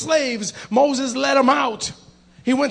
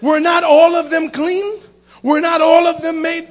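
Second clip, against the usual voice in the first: slow, raised, drawn-out questioning; Jesus as retold; 4 semitones higher, 5 dB louder than usual. Preacher quoting Jesus to the healed man, slow insistent questioning. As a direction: stretch each question out, higher and louder. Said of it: "That's how Jesus spoke".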